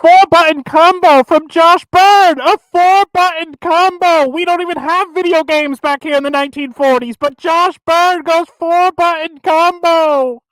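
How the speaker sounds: put-on old-timey radio broadcaster voice; 1950s narrator. Shown as a demonstration. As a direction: call it like a forties sportscaster. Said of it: "old-timey white person broadcaster voice".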